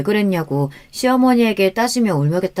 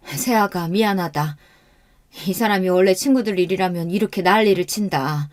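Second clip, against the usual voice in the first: mild apology after an outburst, dropping back down; apologetic. Acted. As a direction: apologize to your daughter-in-law, settling down. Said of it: "미안하다고 연신 사과를 하셨어요". (며느리에게 미안해하며 누그러진 목소리)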